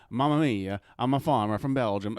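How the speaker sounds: badly faked foreign farmer accent; bad Belgian farmer impression. Host fooling his audience with a dialect promise, badly faked accent. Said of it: "an impression of an old farmer from Belgium".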